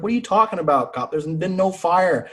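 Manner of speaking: high-pitched incredulous retort; mock disbelief. Woken shipmates answering the false alarm, high incredulous protest. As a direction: question him high, drawing out the denial.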